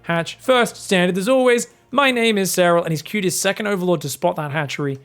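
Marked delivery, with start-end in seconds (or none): 0.0-2.8 a hint of a self-satisfied robot chant; teasing imitation; mock Serral voice. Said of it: "He's like".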